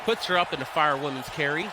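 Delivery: lively ringside commentary, calling each move; energetic live commentary of a wrestling match; play-by-play. Acted. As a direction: call the match like a wrestling announcer. Streamer calls wrestling match play-by-play.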